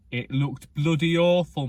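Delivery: a sudden loud verdict on his own hair; loud outburst. Real, not acted. Looking back at his old centre parting, a loud exasperated outburst.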